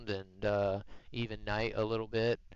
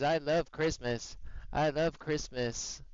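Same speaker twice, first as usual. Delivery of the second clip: voicing the dog; 3 semitones higher, slower than usual. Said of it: "He says".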